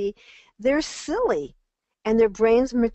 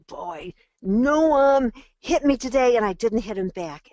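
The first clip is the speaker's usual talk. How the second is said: put-on a light touch of a proud little kid, louder; proud child; 4 dB louder than usual. Mother voicing her child reporting a victory, proudly. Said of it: "they'd say".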